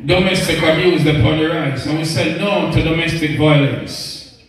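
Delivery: measured, rhythmic poetry recital; spoken-word poem. Acted. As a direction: recite it as uplifting verse to women. Recites poem's closing lines.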